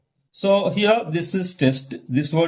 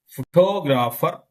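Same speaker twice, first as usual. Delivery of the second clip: "photographer" with TO lengthened; stress on second syllable. Shown as a demonstration. Teacher presenting shifting stress, second-syllable stress. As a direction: lean on the TO of "photographer". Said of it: "stress on second syllable".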